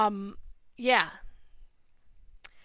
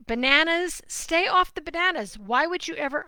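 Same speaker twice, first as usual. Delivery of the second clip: getting upset; 5 semitones higher, 4 dB louder than usual. Real, not acted. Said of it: "I'm getting a little upset".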